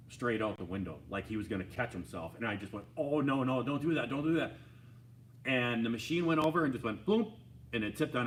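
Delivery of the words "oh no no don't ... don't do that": higher, urgent retold plea; alarmed warning. Rider watching friend's arm go out, alarmed warning. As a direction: cry out in alarm as it tips.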